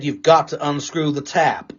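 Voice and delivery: slow, patronising explainer voice; a slightly slowed mock how-to voice; mock video presenter. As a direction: talk it through like a smug tutorial guy. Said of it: "physically said".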